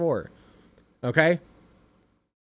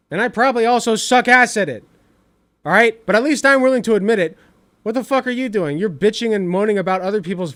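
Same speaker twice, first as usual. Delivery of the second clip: loud and high, exasperated; yelling at a critic, higher and louder; angry rant; 4 semitones higher, 5 dB louder than usual. Real, not acted. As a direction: raise your voice at him, fed up.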